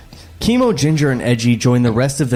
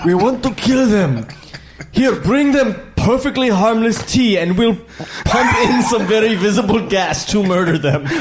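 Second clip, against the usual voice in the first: higher mock alien accent; Trade Federation guys; 6 semitones higher than usual. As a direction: plot in a stilted, hammed-up villain accent. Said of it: "like, the Trade Federation guys".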